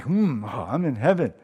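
mock-blissful hum before the words; savoring food. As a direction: savor every bite, dreamy. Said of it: "It's like".

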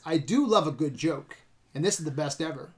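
lightly imitated villain, quietly relishing it; soft, measured cult-leader speech; a hint of a gloating villain monologue; Connell Cochran. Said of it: "Connell Cochran's evil cult speech".

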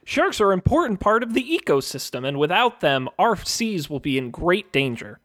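earnest public service voice; PSA announcer. Pretend. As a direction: deliver it like a solemn charity ad. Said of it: "a P S A".

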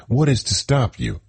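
high, disbelieving question; incredulous. Acted. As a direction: ask it in pure disbelief.

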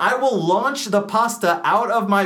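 fast, high, flustered question; frantic rush. Acted. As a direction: blurt it out in a hurry. Panicked homeowner rushing.

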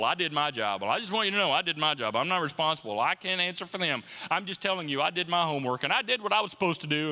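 low, hurried mock defensiveness; acted self-justification. Preacher mimicking someone clearing their name, defensive. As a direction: rattle off excuses as someone dodging blame.

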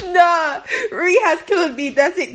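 real laughter breaking the words; wheezing through real tears of laughter; crying with laughter. Real, not acted. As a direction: laugh until you cry. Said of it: "I'm actually crying real tears".

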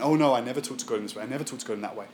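prim, quick mock-pious protest; fast prim mock piety fading quiet; pious denial. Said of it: "super spiritual Christians".

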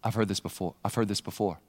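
low, hushed realization; softly, as a thought to oneself; inward recognition. Acted. Jesus remembering the tempter's words, low and quiet. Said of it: "Jesus thinks".

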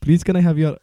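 put-on jokey Indian accent. Guest clowning for the host, mock Indian accent. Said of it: "We're Indian".

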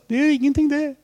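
put-on high, smiling old-king voice; King Olav. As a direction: put on the king's kindly, amused voice. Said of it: "avbrøt kongen med et smil og sa". (etterligner kong Olav, lys og smilende)

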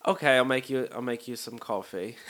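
badly imitated British hostess; horrible British accent. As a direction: put on a clumsy British accent. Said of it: "sorry for this horrible accent".

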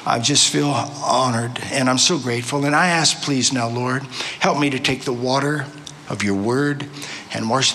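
sincere, subdued spoken prayer. Real, not acted. Visiting preacher praying before the congregation to serve them, subdued prayer.

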